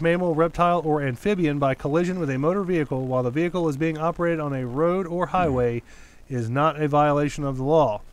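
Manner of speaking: measured article-reading voice; news read-out. Real, not acted. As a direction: read the article out evenly, clause by clause. Reads news article aloud.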